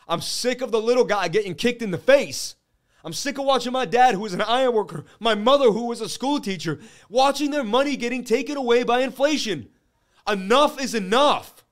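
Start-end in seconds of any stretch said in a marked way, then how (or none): 3.1-11.6 heated rant. Real, not acted. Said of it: "I'm sorry on my rant".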